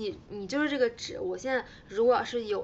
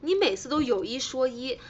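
ordinary delivery

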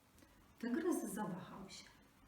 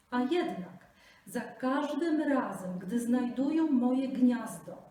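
raised, ringing eagle voice; clear-voiced eagle; 4 semitones higher, 10 dB louder than usual. Eagle judges the Brahmin, clear and loud. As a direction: proclaim it clearly from above. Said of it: "przemówił jasnym głosem".

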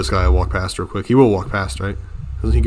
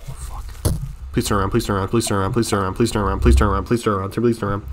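quiet pleading; 8 dB quieter, faster than usual. Real, not acted. Begging enemy not to notice.

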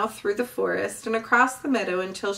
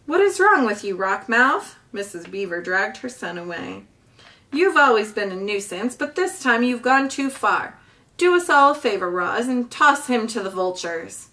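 angry scolding; 3 dB louder than usual. Acted. Mother beaver scolding the pike.

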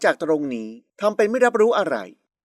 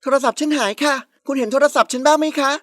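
higher-pitched, put-on worry; feigned panic; 5 semitones higher than usual. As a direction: pretend to be flustered over a loss. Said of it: "ทำการแสดงชุดใหญ่". (แกล้งทำเป็นร้อนใจ)

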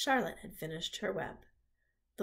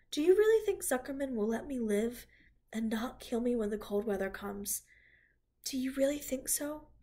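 higher, worried pleading pig; anxious pig; 3 semitones higher, 3 dB louder than usual. Acted. Wilbur asks Charlotte if he will live, worried. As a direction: ask it hoping to be reassured.

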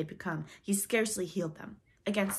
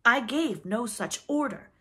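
higher, louder, slow denial; shaken; 5 semitones higher, 8 dB louder, slower than usual. A narrator's reading. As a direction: deny it firmly though rattled. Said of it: "he said, shaking a little".

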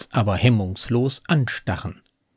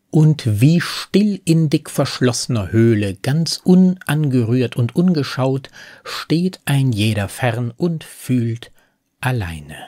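poem recitation; 2 semitones higher than usual. Acted. Narrator quoting the poem's lonely ending, measured recitation. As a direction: pause before the final word and let it sink. Re-reads final verse within analysis.

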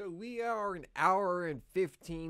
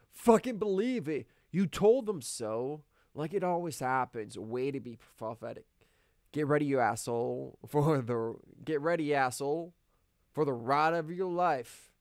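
angry inner voice; 4 dB louder than usual. Acted. Harsh inner voice taunting.

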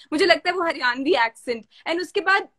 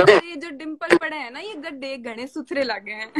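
a light Haryanvi accent in a teasing compliment; Haryanvi line. Shown as a demonstration. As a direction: say the compliment the way a Haryanvi girl would. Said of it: "तो मैं ये हरियाणवी में बोलती हूँ".

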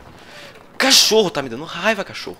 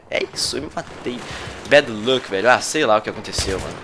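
normal talking voice

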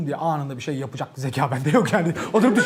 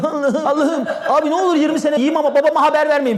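mock pleading; 8 semitones higher, 3 dB louder than usual. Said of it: "falan diyorum".

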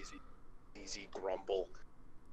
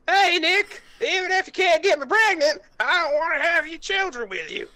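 much higher and louder, a mock girly imitation; mocking Judy; 8 dB louder than usual. Nick mocks Judy's words back at her, in a high falsetto. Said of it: "So what you're saying is".

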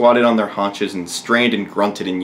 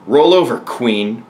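royal order; 4 dB louder, slower than usual. Acted. King commanding the queen in bed, ordering. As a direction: order it firmly, hitting the first words. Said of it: "ordered the king".

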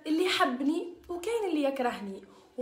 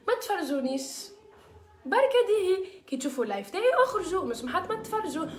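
loud and high, telling haters off; irritated loud reprimand of the haters; fed-up scolding; 5 semitones higher, 4 dB louder than usual. Real, not acted. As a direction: raise the voice and shoo them away. Telling haters to stop watching.

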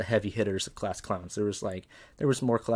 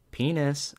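one word pitched higher, falling at the end; raised game call; 6 semitones higher, 3 dB louder than usual. Retold or imitated. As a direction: imitate calling it a notch up. Principal repeats it louder.

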